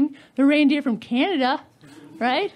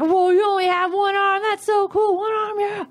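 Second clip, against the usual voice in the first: mock amazement; 4 semitones higher than usual. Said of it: "I was like".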